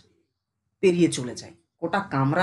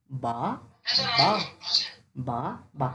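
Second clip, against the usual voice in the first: split syllables; 4 semitones lower, slower than usual. Shown as a demonstration. Teacher showing the gap between syllables, split syllables. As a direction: leave a clear gap after every বা. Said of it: "মাঝে একটা gap আছে".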